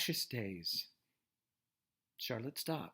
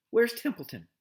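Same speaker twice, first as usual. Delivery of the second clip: loud, high, urgent demand; 9 semitones higher, 8 dB louder than usual. A narrator's reading. Wilbur to Charlotte, loudly demanding the rat. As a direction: bark the question. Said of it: "he demanded".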